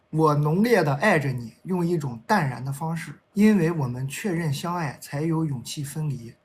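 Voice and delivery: measured love-poem recital; poem reading. Acted. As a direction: recite it slowly, letting each line fall away. Reads a love poem aloud.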